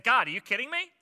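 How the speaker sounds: freaking out, high and loud; Mary. Acted. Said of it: "Mary was freaking out".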